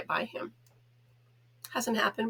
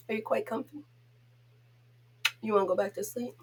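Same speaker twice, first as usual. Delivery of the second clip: softer tender coaxing; 4 dB quieter, faster than usual. Real, not acted. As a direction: ask the sleepy dog gently. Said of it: "I know I'm a goof with him".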